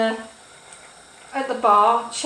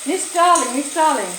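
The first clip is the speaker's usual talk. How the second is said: put-on Indian accent; 4 semitones higher than usual. Hotel manager confronting guest in an Indian accent. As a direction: scold lightly in an Indian accent. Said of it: "that was an Indian accent there".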